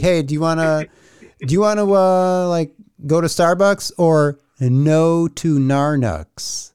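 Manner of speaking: "Starbucks or no to Narnux" drawn out slowly, playful; a slow, jokey demo of his own slang; mock casual invite. Shown as a demonstration. Demoing his slang invitation to cohosts, slow and playful. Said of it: "So this is how I operate".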